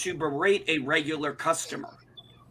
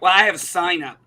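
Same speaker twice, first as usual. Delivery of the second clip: louder, curt "Well, I have a SIGN up"; snippy owner; 2 semitones higher, 7 dB louder than usual. Retold or imitated. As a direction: bite off the words like a rude shop owner. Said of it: "what should have been in customer service is".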